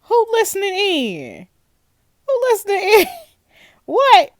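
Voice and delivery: high, loud frantic questions; alarmed shouting. Real, not acted. Gamer yelling at Sophie in alarmed disbelief. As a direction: demand answers, rising panic.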